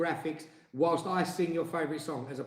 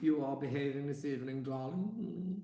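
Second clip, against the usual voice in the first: mock-polite complaint. Husband shows wife how to scold without swearing, mock-refined. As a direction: scold like someone too proper to swear. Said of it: "You say".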